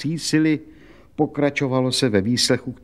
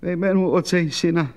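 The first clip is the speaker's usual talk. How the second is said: higher, a groaning invocation as she signs; moaning prayer; 6 semitones higher than usual. Acted. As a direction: moan the blessing in resignation. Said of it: "zasténala Anna Buklová".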